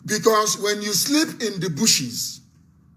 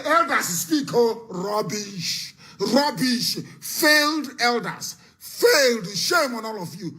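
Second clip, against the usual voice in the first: scornful rebuke; 3 semitones higher, slower than usual. Real, not acted. Host shames the failed elders on air, scornful rebuke. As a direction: berate them, stretching the insults.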